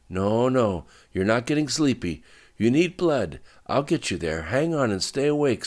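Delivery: alarmed, forceful urging; urgent insistence. Acted. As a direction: insist she fight to stay awake. Driver keeps wounded woman awake.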